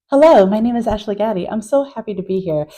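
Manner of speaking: lightly put-on proper professional English; code-switch into careful, formal introduction speech; proper "white" talk. Shown as a demonstration. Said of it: "they have to talk like this".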